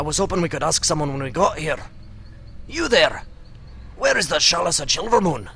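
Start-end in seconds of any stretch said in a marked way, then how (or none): 2.7-5.5 bad Scottish accent. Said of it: "friend's bad Scottish accent".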